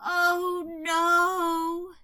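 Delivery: high, loud mournful wail; sad crow. A narrator's reading. Crow hiding behind her wings, sad. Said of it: "singing a sad little song".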